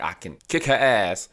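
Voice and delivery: a touch of fight in the voice; confrontational. Retold or imitated. Reviewer voicing how a song first seemed, confrontational. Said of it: "very confrontational".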